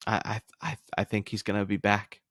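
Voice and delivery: co-host unsure while predicting a comeback; hesitant, quiet. Real, not acted. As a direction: say it under your breath, not quite committing. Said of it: "I'm doing it to myself".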